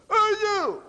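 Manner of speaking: loud, high-pitched holler; mock yell from far behind; calling out. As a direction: holler it across a distance. Retold calling out after speaker.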